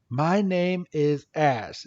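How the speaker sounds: slow, drawn-out self-introduction; Ash. Retold or imitated. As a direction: spell it out slowly for a newcomer. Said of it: "Ash is like".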